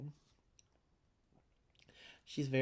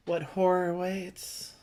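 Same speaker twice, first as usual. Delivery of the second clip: ominous; 3 semitones higher, much slower than usual. Pretend. Ominous teaser of final map.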